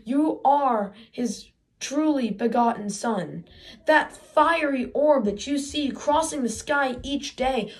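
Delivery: a lightly voiced solemn mother, slow in parts. Boy voicing his upset mother calling him the sun's son, lightly solemn. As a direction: intone it like a grave oracle, slowly. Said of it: "And she says".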